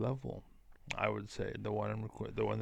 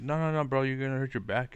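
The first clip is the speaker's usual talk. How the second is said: alarmed warning; 3 semitones higher, 4 dB louder, faster than usual. Retold or imitated. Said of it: "And like".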